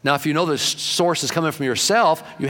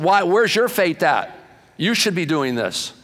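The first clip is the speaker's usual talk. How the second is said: scolding; 5 semitones higher, slower than usual. Retold or imitated. Jesus scolds the disciples.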